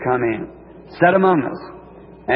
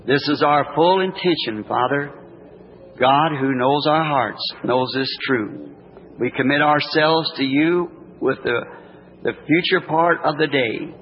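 gentle warm blessing; 2 semitones lower than usual. Real, not acted. Prayer continues to amen.

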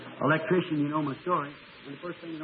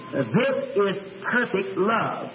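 very slow, solemn voice of God; slow, deliberate and tender; slow divine voice; much slower than usual. Retold or imitated. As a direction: speak each word slowly like a voice from heaven. Voice of God speaking.

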